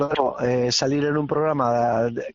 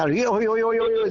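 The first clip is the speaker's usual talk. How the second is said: mocking imitation; 7 semitones higher than usual. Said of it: "otros que nos imitan y me dicen".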